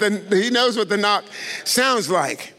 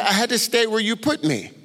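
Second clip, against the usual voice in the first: laughing repeat; 3 semitones higher than usual. Retold or imitated. Man echoing Jesus's words, laughing in disbelief. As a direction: echo the words through a laugh.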